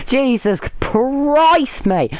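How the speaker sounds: slow, dragged-out despairing groan of words; exasperated. Real, not acted. Fan despairing over the defender, slow and dragged out. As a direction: stretch it out in despair.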